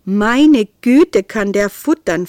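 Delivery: wife delighted at the hungry kitten. A narrator's reading. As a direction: marvel happily at his appetite. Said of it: "freute sich".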